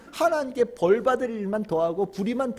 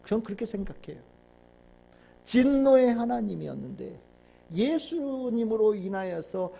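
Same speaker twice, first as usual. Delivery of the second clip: ordinary talk, nothing marked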